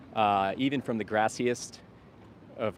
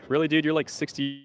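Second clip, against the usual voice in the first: incredulous; 6 semitones higher, 4 dB louder than usual. Real, not acted. Indignant reaction to troll.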